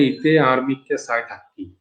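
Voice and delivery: calm Chittagonian regional speech; Chittagong dialect. Shown as a demonstration. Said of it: "চট্টগ্রামে এটাকে বলে".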